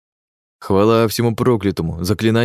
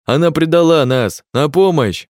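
shouting for help; 7 semitones higher, 4 dB louder than usual. A narrator's reading. Impostor keeps calling for help.

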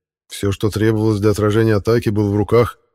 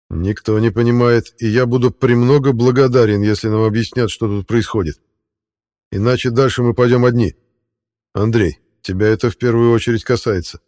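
threatening; 2 semitones higher, 4 dB louder than usual. Acted. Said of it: "пригрозил Денис".

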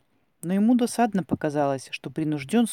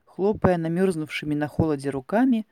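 ordinary delivery

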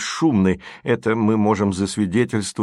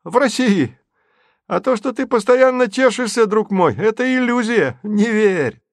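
high, loud manic insistence; a raving madman, pitch climbing; asylum patient; 10 semitones higher, 4 dB louder than usual. A narrator's reading. Manic rant continues.

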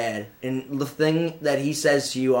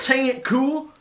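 mock squeal; 12 semitones higher than usual. Mocking the website name.

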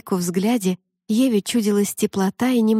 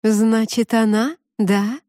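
slow, gentle murmuring mermaid; babbling mermaid voice; 3 semitones higher, slower than usual. Acted. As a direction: purr it like a brook. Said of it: "ласково журчащим".

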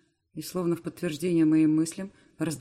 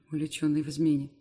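usual speaking voice

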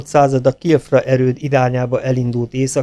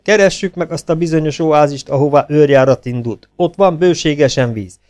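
higher, louder eager report to the general; a simple peasant corporal standing to attention, speaking up; dutiful soldier report; 5 semitones higher, 3 dB louder than usual. Acted. Corporal Péter reports to the officers, higher and louder, at attention.

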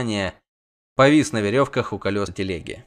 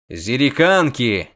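shout; 4 dB louder, slower than usual. Acted. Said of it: "крикнул ведьмак".

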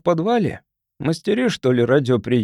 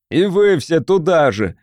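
shouted at crowd; 3 semitones higher, 4 dB louder than usual. Acted. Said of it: "крикнул он в толпу".

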